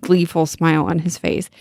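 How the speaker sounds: ordinary delivery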